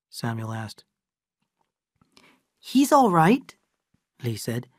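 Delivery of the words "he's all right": lightly raised voice of Lee, calm and knowing; Lee character voice. Acted. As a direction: Lee speaking matter-of-factly to the old friend. Lee, servant, voiced higher.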